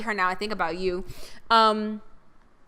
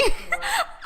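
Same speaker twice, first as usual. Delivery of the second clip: high laugh. Real, not acted. Funny story about mom.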